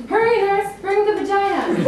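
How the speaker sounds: high, loud hospital emergency cry; mock urgent call. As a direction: call out in comic panic for the nurse. Acted urgent call to nurse.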